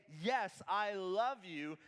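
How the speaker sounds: slow, earnest yes, I love you; mean every word of I love you; sincere. Shown as a demonstration. Believer answering Jesus in earnest, slow and sincere. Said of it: "Jesus says back to us".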